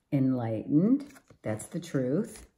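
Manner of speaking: normal talking voice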